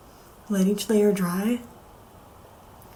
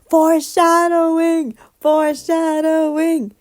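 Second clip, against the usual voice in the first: higher, slow emphatic shout; excited exclaiming; 6 semitones higher, 5 dB louder than usual. Retold or imitated. Fan reacting to the anime, excited slow exclaim. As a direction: call it out like a discovery. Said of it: "and I'm like".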